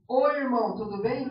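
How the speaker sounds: loud, punchy hello; mock public greeting, projected; acted hearty greeting. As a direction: hail a fellow believer loudly. Acted greeting to a fellow believer.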